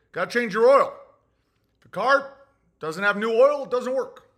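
matter-of-fact. Acted. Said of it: "Very matter of fact".

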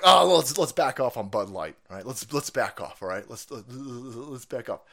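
slowing, fading mock plea to back off; a limp, half-hearted imitation of quitters; mock timid quote. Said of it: "people are like".

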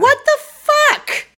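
very high, loud, slow cracking cry of disbelief; shocked outcry. Real, not acted. Hearing the detective's bad take, shocked high cry. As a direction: stretch it out in real outrage. Reacting to absurd line.

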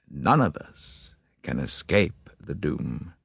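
a hint of a fatalistic old man, slow and heavy; grim father telling the detective of the family doom; lightly voiced doomed father. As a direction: speak as a weary man resigned to his family's curse. Reader voices gloomy Hugo.

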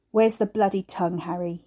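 lightly gruff, grating demand; a hint of gravel, demanding. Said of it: "gruff and grating".

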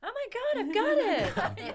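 loud, high burst with an American twang; slipping into American on a sudden idea, loud and drawn out; a bit American. Real, not acted. Excited outburst, slightly American accent. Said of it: "that kind of was a bit American".

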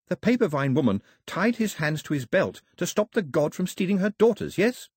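a hint of an eager young girl; earnest girl, lightly voiced. Daphne explaining Mao's myth.

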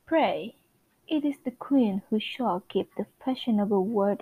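a lightly put-on British narrator, measured and grand; Lady Whistledown narration. Reading Whistledown's column to her listeners, lightly British. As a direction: read it like a gossip columnist's decree.

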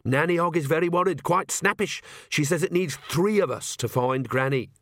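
lightly voiced anxious messenger; worried young witch. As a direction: press the news on her urgently.

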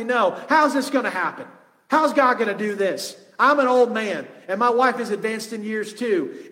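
lightly sarcastic, doubtful protest. Retold or imitated. Old priest doubting the angel's promise, mildly sarcastic. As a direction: imitate an old man mildly scoffing at the news. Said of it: "But sarcastically".

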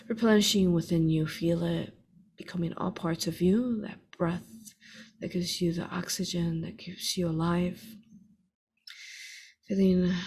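measured, unhurried meditation guide with long pauses for breath; guided meditation. Real, not acted. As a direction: lead listeners steadily through each breath and image.

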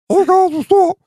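very high, cartoonish stoked skater dude; frat bro. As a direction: pitch way up like a hyped little mushroom. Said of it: "how do you think that this dude would sound".

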